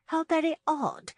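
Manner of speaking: high, loud note of puzzlement; lightly voiced puzzled matron; musing. A narrator's reading. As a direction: muse aloud, pitched right up. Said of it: "Missus Clark mused".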